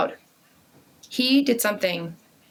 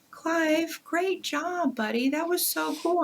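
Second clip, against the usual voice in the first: lightly higher, sweet sister praise; a hint of a sweet little girl; big sister voice; 8 semitones higher, 3 dB quieter, slower than usual. Older sister praising her brother, lightly higher. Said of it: "Emma, she's like".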